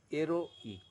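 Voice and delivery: "heroic" split as "ero... ik", no H; French "heroic" with a short break inside; pause before I. Shown as a demonstration. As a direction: say "heroic" in two parts, pausing before the "ik". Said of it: "you cannot pronounce at a time".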